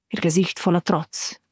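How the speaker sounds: ordinary delivery, nothing marked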